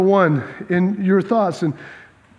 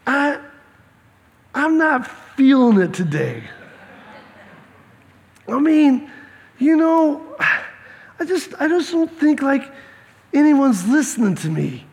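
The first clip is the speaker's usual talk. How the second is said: mock mopey; 3 semitones higher than usual. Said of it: "Jesus going".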